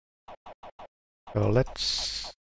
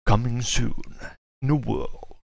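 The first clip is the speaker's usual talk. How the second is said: movie trailer voice; 3 semitones higher, slower than usual. Retold or imitated. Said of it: "trailer voice".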